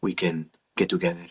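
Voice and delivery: low, soft Latin lover voice; smooth Latin lover, unhurried pauses between phrases; Fernando. Shown as a demonstration. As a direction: seduce in a low Spanish accent. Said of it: "like, a Latin lover kinda guy".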